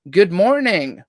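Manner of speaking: drawn-out Southern American greeting; stretched-out, lightly attempted Southern American drawl; Southern American accent. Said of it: "That was my best, ... Southern American accent".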